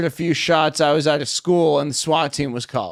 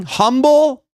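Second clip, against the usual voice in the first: pitched up high on humble; ironic humble; 9 semitones higher, 5 dB louder than usual. Acted. Bragging to the crowd, ironic loud humble. Ironic brag list punchline.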